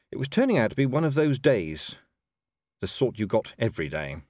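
usual speaking voice

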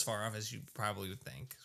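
hushed whisper. Real, not acted. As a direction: whisper it like a secret. Confiding aside to co-host.

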